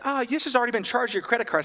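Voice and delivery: hammed-up fake alert; mock scam notice. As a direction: rattle it off like a scammer. Mocking scam email.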